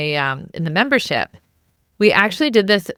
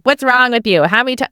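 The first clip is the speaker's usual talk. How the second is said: a hint of a scolding mom, a bit louder; mock nag at a kid up too late; naggy mom; 5 semitones higher, 4 dB louder, faster than usual. Shown as a demonstration. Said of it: "it's not like the naggy mom".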